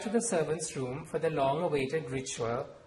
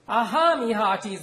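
booming swashbuckler greeting, higher and louder; hearty pirate voice; 7 semitones higher, 9 dB louder than usual. Acted. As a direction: bellow it like a jolly sea captain. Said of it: "dropping her hearty voice and accent".

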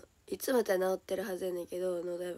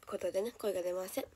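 softer, as the voice fails; voice giving out; 2 semitones lower, 5 dB quieter than usual. Real, not acted. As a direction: struggle to get the voice out. (声が出ない感じで)

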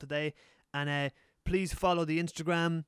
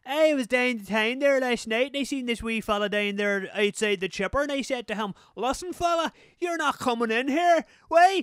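broad Donegal storyteller, building higher and louder; Donegal accent; 9 semitones higher, 8 dB louder than usual. Shown as a demonstration. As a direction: show off a Donegal accent, rising to a loud mock scolding. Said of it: "in Donegal, they talk like".

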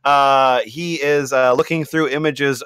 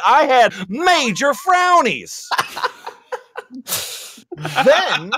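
Latina mom voice. Acted. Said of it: "more Latina Mom coming in".

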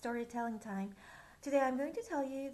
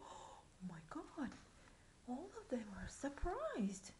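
whisper; 9 dB quieter than usual. Acted. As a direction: breathe it out in a shocked whisper. Awed aside to kids.

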